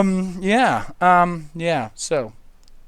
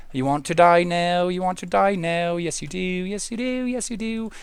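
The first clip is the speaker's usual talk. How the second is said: mock menace; 7 dB quieter than usual. Quiet menacing talk to creeper.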